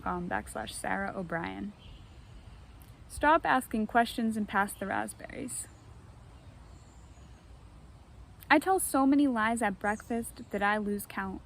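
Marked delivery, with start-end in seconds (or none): 3.1-11.4 measured recital with long pauses; poetry reading. Acted. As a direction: read each line as its own verse. Reads her poem aloud.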